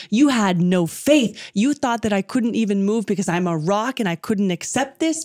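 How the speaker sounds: retold rebuke, mildly indignant; angry deity. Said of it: "the deity gets so angry and says".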